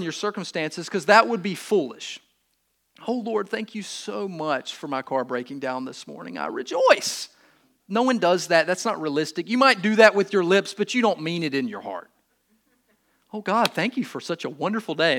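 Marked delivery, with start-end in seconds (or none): 3.1-7.3 sarcastic prayer. Retold or imitated. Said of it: "sarcastically say that to the Lord". 13.3-15.2 sarcastic prayer. Retold or imitated. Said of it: "sarcastically say that to the Lord".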